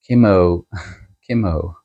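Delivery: "Kimo" ending on a long "oh"; "Kimo" with a full round final o. Shown as a demonstration. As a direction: say "Kimo" as "kim-OH". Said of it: "so own, like, oh".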